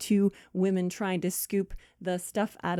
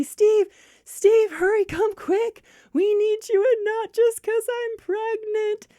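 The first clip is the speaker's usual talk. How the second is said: loud, very high cry for help; frantic calling out; 13 semitones higher, 6 dB louder than usual. Acted. Friend calls Steve the plumber to come, frantic. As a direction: holler for help in a hammed-up panic.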